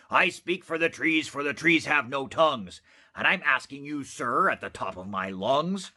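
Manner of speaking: lightly voiced sharp, bossy little man; sharpish bossy Lorax. Lorax confronting the Onceler, sharp and bossy. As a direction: scold him like a small stern guardian. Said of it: "a voice that was sharpish and bossy".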